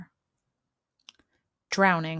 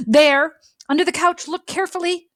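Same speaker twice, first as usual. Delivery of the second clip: higher pig voice; 7 semitones higher, 3 dB louder, faster than usual. Acted. Pete answers the clown at door.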